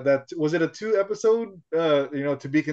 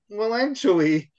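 slow, pedantic know-it-all; nitpicky well actually; 6 semitones higher than usual. Retold or imitated. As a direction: drawl it like a smug nerd. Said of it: "not to get all, like".

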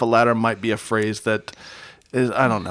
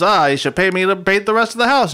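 put-on whiny teen Wally; 6 semitones higher, 5 dB louder than usual. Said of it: "Wally says".

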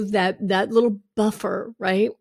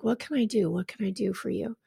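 husband's question; 8 dB quieter than usual. Retold or imitated. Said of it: "he's like".

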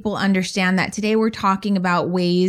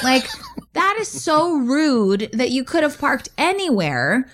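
laughing indignation; 4 semitones higher than usual. Retold or imitated. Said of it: "I'm pissed".

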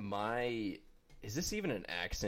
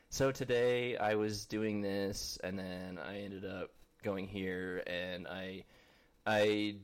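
put-on teen influencer voice; slower than usual. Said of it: "teenage influencers sound".

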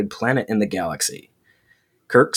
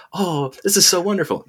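higher, gushing mock delight; mock swooning; 9 semitones higher than usual. Woman charmed by Kirk, lightly hammed-up swoon. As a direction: lightly play someone falling for the charm. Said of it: "then you'll be like".

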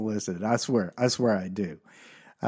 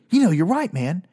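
dawning realization; 4 semitones higher than usual. Retold or imitated. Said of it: "this and goes".

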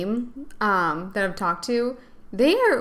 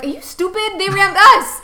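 higher, exasperated mock outrage; indignant retort; 8 semitones higher, 8 dB louder than usual. Retelling an argument with crewmates who blamed her, indignant retort. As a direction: throw it back in disbelief. Retold quarrel over ramming.

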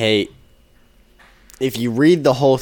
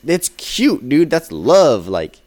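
imitating a gushing friend, pitched up; mock-earnest defense, higher pitch; 5 semitones higher, 4 dB louder than usual. Coworker defending the movie's love scene, gushing.

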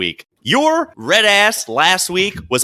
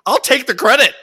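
smug; 10 semitones higher, 4 dB louder than usual. Retold or imitated. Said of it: "I was like".

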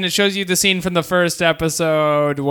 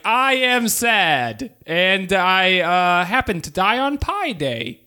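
mock Marx voice; 3 semitones higher, slower than usual. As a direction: drawl it out like a sad cartoon. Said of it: "Carl is like".

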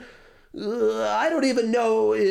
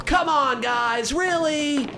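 exasperated shout; 5 semitones higher, slower than usual. Acted. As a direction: bark it out in disbelief. Exasperated outburst at the club.

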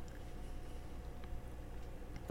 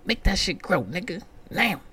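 high, strained panicked voice; panicking before the doctor walks in; mock panic; 11 semitones higher than usual. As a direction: freak out in a high squeak. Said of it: "I'm like".

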